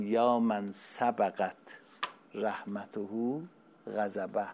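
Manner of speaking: slow, drawn-out prayer recital; recited prayer. Acted. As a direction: stretch each word like a solemn invocation. Quotes a prayer line. (دعاخوانی کشیده و آرام)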